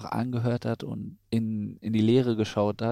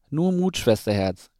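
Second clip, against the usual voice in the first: louder, upbeat brother cheering her on; encouraging call; 4 semitones higher, 6 dB louder than usual. A narrator's reading. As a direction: call out to buck up a little sister. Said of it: "rief ihr Bruder aufmunternd".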